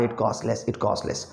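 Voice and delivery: "It costless" said softly, the second time almost whispered; quiet repetition. Shown as a demonstration. Teacher quietly modelling the twister for students to repeat. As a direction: repeat it low, fading to a whisper. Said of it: "बोलो इसको बार बार".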